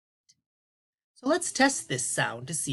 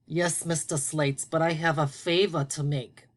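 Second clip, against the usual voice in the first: lightly voiced shy puppet greeting; a hint of a sleepy puppet saying hello; gentle puppet voice for the class; puppet Tony. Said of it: "All right, are you ready to do unblending today?".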